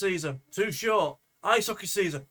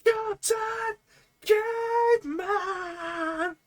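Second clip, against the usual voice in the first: high, drawn-out cartoon caveman cry; Captain Caveman call; 13 semitones higher, much slower than usual.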